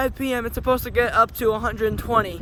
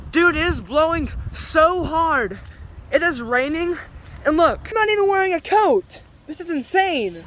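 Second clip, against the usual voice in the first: raised excited voice over the wind; excited shouting; 5 semitones higher than usual. Real, not acted. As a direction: yell it out over a storm. Shouting over windstorm outdoors.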